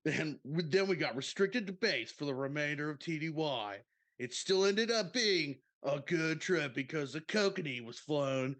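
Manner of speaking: laid-back bro storyteller reading aloud; surfer-dude bro. Retold or imitated. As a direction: put on a party-dude voice, drawing out key words. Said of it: "that's how I feel you talk".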